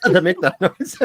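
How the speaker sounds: laughs through the words, then high laughter; cracking up at the noise; laughing. Real, not acted. Reacting to a strange noise on the call, laughing hard.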